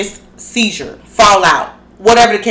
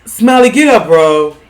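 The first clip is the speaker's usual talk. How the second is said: mock call; 3 semitones lower, 5 dB louder than usual. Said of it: "Here go Biggie to my son".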